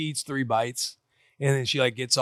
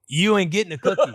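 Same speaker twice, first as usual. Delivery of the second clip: firm refusal; 6 semitones higher, 6 dB louder than usual. Retold or imitated. Refusing daughter's cookie.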